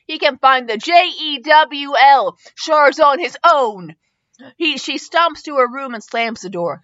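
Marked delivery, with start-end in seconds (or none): 0.1-4.0 hammed-up angry girl storming in; mild angry yell. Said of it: "I can hear her yelling".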